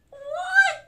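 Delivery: very high, loud yelp; mock shock. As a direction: explode in disbelief. Reader shocked by the song.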